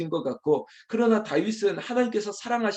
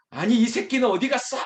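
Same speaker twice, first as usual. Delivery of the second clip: high, raised curse; acted furious demand, pitched up; angry outburst; 8 semitones higher, 4 dB louder than usual. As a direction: burst out cursing the absent one. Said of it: "화를 막 내는 거죠".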